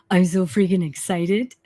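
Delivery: whispered, barely voiced; excited whisper. Real, not acted. Psychic telling viewers her news, excited whisper. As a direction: hush it out, bursting inside.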